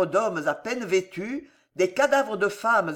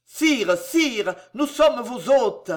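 high, raised begging to the king; desperate pleading; 4 semitones higher, slower than usual. Acted. Victims plead with the king to save his guests, desperate. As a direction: implore the king for your life.

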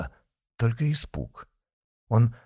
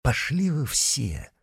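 wearily thought; 5 semitones higher, slower than usual. A narrator's reading. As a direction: mutter inwardly in despair. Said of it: "тоскливо подумал Митя".

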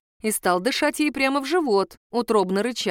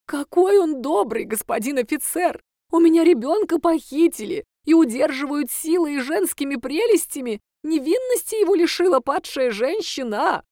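tearful bitterness; 7 semitones higher, 4 dB louder than usual. Acted. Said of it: "С горечью и слезами в голосе".

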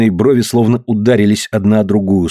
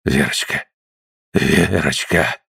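low, breathless, slow whisper of her name; 7 semitones lower, 4 dB quieter, slower than usual. Acted. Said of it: "прошептал он, задыхаясь".

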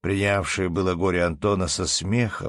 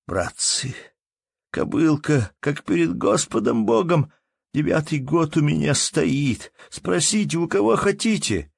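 desperate plea; 9 semitones higher, 3 dB louder than usual. Acted. Anton pleading before God.

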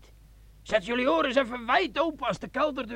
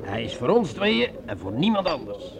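much lower, sly and intimate; low seductive sergeant; 10 semitones lower than usual. Acted. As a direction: coax her into drinking, low and sly. Sergeant speaks low to Margot. (sergeant fluistert laag en verleidelijk tegen Margot)

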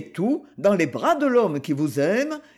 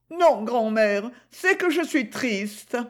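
sad; 4 semitones higher, slower than usual. Acted. Gigi says she is sad.

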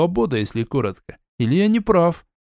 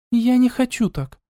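put-on higher, stubborn girl's voice; lightly voiced sister, sulky; a hint of a frowning sister; frowning refusal; 11 semitones higher than usual. A narrator's reading. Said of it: "нахмурилась сестра".

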